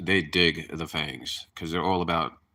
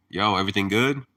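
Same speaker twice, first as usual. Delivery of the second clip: New York accent; 3 dB louder than usual. Shown as a demonstration. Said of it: "that's New York English".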